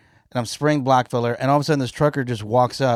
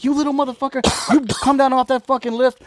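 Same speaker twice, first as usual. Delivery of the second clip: imitated trucker, high and louder; irate challenge; 12 semitones higher, 4 dB louder, faster than usual. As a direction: call him down as the angry trucker. Trucker challenges him from below.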